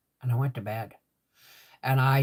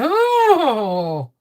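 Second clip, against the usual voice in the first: pained gasp; 12 semitones higher, 8 dB louder than usual. Retold or imitated. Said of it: "So three times I went".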